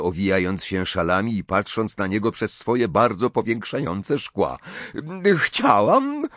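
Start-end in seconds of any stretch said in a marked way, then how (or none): 5.4-6.2 mumbled. Acted. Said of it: "wymamrotała".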